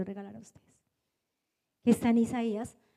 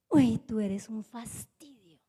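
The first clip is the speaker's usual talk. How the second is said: mock contempt; 4 semitones lower, slower than usual. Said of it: "con una cara de rabia, con ira".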